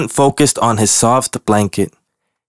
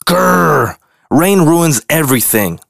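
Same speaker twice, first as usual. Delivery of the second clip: grumbling higher complaint; complaining growl; 5 semitones higher than usual. Acted. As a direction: growl at the rain. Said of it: "Grunt complained".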